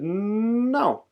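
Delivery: escalating comic defiance; stubborn refusal. A narrator's reading. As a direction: dig in with a long climbing NO. Father refuses again, escalating.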